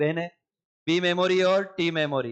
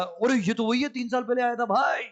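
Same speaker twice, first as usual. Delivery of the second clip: memory cell recognizing; 6 semitones higher than usual. Pretend. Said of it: "निकाला".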